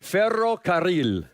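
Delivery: ferrocarril with a rolled rr and a tapped final r, said slowly; Spanish pronunciation. Shown as a demonstration. Pastor showing the congregation another Spanish word, slow trilled R. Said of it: "Another one".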